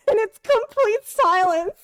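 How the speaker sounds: high laughing narration. Real, not acted. Laughing while recalling the awkward silence.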